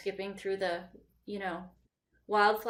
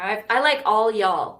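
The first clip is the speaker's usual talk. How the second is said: a louder, playful American Southern "all y'all", leaning into the twang; 7 dB louder than usual. Shown as a demonstration. Showing off her favorite Southern phrase, in a playful American Southern accent. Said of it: "speaking American here and there".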